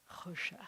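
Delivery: choshech whispered, rough and breathy like a snore; snoring choshech. Shown as a demonstration. Teacher making choshech sound like snoring. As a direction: breathe choshech like someone asleep. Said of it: "like somebody snoring".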